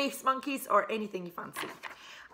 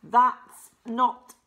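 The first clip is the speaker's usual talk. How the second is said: slow, louder, put-on voice for an indignant Wilhelmina; Wilhelmina protesting; 7 dB louder, much slower than usual. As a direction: drag it out as a wronged scientist. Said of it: "Here we've got Wilhelmina saying".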